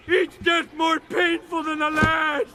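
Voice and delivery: anguished rant. Acted. Cursed character ranting at fate.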